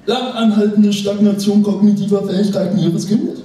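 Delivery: very high, sung sales patter; sing-song ad voice. Pretend. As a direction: climb into a high chant. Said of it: "Und der geht so". (hohe, singende Werbestimme)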